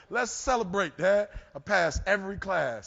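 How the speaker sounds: jubilant son. Retold or imitated. Son insisting on celebrating.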